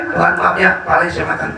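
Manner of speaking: low, humble apology to a god; acted low-voiced pleading for pardon; mock apology. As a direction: apologise sheepishly, pitched well down. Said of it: "Dia minta maaf".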